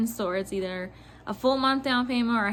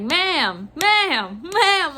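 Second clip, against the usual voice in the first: repeated interjection, climbing in pitch each time; imitated exasperated manager; 4 semitones higher, much slower than usual. Manager trying to interrupt screaming customer, insistent. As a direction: try to cut in, rising each time. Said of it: "him being like".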